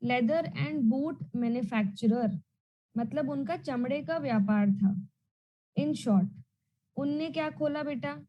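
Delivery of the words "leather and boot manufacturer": very slow, each word spaced out for dictation; slow repeat. Shown as a demonstration. Teacher repeating the term slowly for the class, very slow and deliberate. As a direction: spell it out slowly so students can write it down. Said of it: "फिर से मैं बोल रही हूँ".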